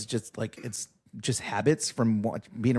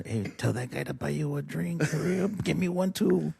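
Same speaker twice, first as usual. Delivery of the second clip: scheming dad; 4 semitones higher than usual. Pretend. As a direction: egg the kid on under your breath, playfully. Dad imagined using pretty son for drinks.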